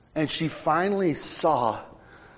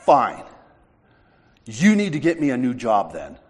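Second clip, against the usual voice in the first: mad, louder giving-in to an order; retold anger; 5 dB louder than usual. Man fed up with God's order, retold mad surrender. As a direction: give in angrily, pushing the volume up. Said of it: "I was mad".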